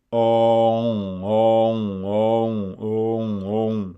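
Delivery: "on" with the o sound pushed through the nose; nasal vowel demo. Shown as a demonstration. Teacher to learner, drilling the nasal vowel. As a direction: hold the nasal "on", repeated firmly. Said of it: "qu'on va nasaliser".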